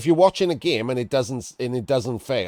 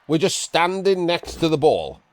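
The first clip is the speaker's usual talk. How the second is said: higher, incredulous complaint; exasperated disbelief; 7 semitones higher, 4 dB louder than usual. Real, not acted. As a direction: point out the obvious in dismay. Disbelief continues.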